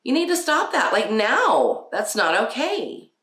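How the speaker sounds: sharp high firm scolding; high, firm stop-now command; firm parent command. Shown as a demonstration. Mom telling a misbehaving child to stop, firm high scold. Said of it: "there is a time where you go".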